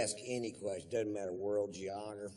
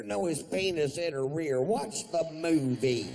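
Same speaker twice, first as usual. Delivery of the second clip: louder, impatient reply; loud know-it-all kid; mock exasperated answer; 4 semitones higher, 7 dB louder than usual. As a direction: snap back at the dumb question. Acted answer to friend.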